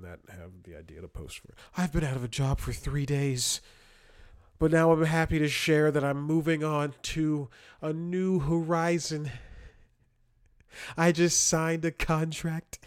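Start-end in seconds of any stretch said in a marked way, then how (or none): 1.8-12.8 higher, smug announcement voice; mock LinkedIn poster. Mocking LinkedIn posters bragging about new jobs, in a higher smug voice. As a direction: parody a self-satisfied job post.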